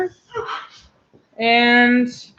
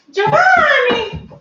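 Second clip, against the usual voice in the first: slow, higher sing-song call of a name; drawn-out call; 9 semitones higher, slower than usual. Real, not acted. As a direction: stretch the name out to call him. Calling the pet by name.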